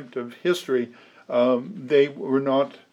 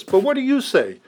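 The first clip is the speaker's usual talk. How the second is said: "But what do you say" asked higher, leaning on "what"; raised voice questioning; 9 semitones higher than usual. Retold or imitated. Preacher imitating people asking, higher pitch. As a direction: lift the question up high. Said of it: "people say this".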